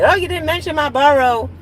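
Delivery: high, loud imitation of an offended viewer; mock complaint. Imagined viewer whose borough was left out, high mock complaint. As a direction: whine it way up high, mocking a complainer.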